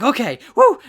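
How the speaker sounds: high, loud hammed-up cheer; mock woo. Fan voices Dabi leaping into the fight, loud high whoop. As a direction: whoop like a reckless villain.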